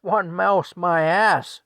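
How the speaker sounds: loud, high, incredulous retort; scornful outraged yell; yelling wife. Retold or imitated. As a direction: throw his words back at him, hollering. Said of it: "she yells at Frank".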